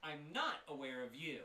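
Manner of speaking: high, loud shopkeeper voice; eager shopkeeper. Acted. Shopkeeper reads the flyer from the warlock, high and eager. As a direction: keep them talking, glad for company.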